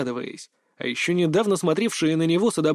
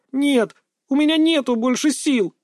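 near shout; 10 semitones higher, 4 dB louder than usual. A narrator's reading. Exhausted girl refusing the coach, near shout. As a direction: pitch up and louder, exhausted protest. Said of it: "чуть ли не выкрикнула она".

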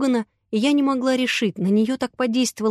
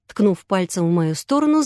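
usual speaking voice

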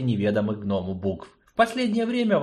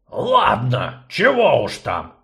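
forced out; 6 dB louder, slower than usual. Acted. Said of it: "наконец выдавил он".

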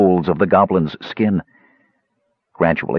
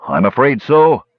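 deeper voice; 3 semitones higher, 4 dB louder than usual. Acted. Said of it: "then a deeper one say".

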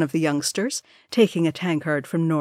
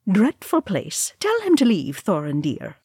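disdainful matron; 3 semitones higher than usual. Acted. Disdainful noblewoman's complaint.

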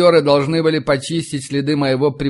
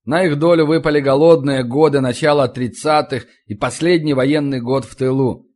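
ordinary delivery, nothing marked

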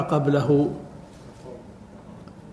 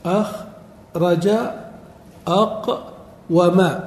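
slow demo; much slower than usual. Shown as a demonstration. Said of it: "أفعل".

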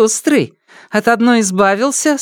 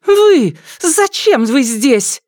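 a sharp cry, then a slow demand; shocked outburst; 14 semitones higher, 3 dB louder, much slower than usual. Acted. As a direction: recoil in shock. Mana shocked and angry.

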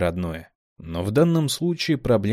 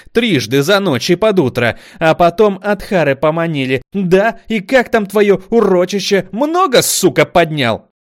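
much higher, much louder yelling; furious; 10 semitones higher, 10 dB louder than usual. A narrator's reading. Kamila berating Zames, furious yelling. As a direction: yell mocking accusations. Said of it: "злобно тыкая оружием".

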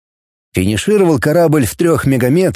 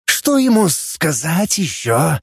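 alien translator voice; 4 semitones higher, slower than usual. Acted. Alien Gum asks.

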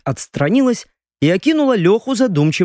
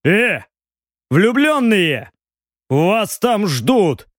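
unceremonious call; 4 semitones higher, much slower than usual. Acted. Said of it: "бесцеремонно объявил Робин".

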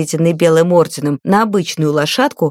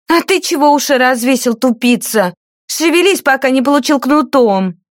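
high, vicious threat; bully the boy with the whip; threatening scold; 6 semitones higher than usual. A narrator's reading. Lady threatens the page with the whip, vicious scold.

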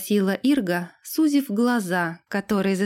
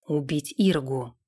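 composed retainer Sam; 6 semitones lower than usual. A narrator's reading. Sam confesses a royal order to the lord, composed.

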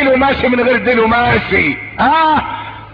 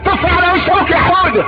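put-on high, sing-song coaxing to a child; mock doting parent; 8 semitones higher than usual. Parent coaxing toddler Houda to spit on father, high. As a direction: egg the toddler on teasingly.

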